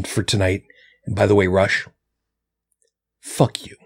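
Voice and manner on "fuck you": whispered. Real, not acted. Parting insult to Rush.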